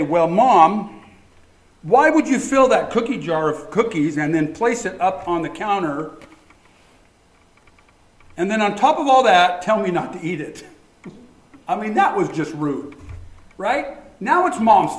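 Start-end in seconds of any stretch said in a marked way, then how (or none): 0.0-10.6 whiny, louder protest at mom; mock complaint to mom. Child protesting to mom about cookie jar, mock whiny and loud. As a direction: pretend the kid blaming his mother. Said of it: "We want to say".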